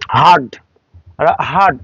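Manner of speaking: হার্ড as haad, British silent R. Shown as a demonstration. English teacher models British hard, silent R. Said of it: "আর উচ্চারণ করছে না".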